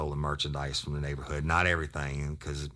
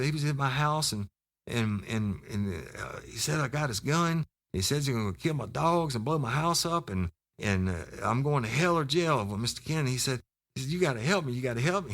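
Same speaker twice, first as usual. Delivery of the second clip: much higher, frantic mock pleading; panicked kid; 9 semitones higher than usual. Scared informant pleading with the cop, high and frantic. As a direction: rattle it off like a scared tweaker.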